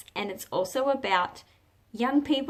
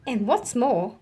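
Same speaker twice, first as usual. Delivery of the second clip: louder, animated storybook reading; story narration; 3 dB louder than usual. A narrator's reading. Teacher reading a picture book to children, animated storytelling. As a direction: bring the picture book alive for kids.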